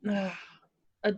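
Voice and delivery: ordinary talk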